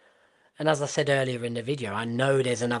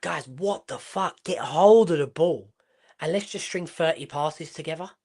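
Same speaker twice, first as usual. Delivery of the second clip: lightly voiced player pleading with teammates, higher pitch; a higher-pitched, mildly acted rallying plea; exasperated player; 5 semitones higher than usual. One player urging the guys to keep the ball, lightly acted exasperation. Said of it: "one player to just be like".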